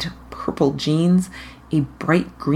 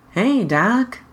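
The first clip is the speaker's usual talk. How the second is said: bright and brazen; 7 semitones higher than usual. Acted. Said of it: "brightly, brazenly".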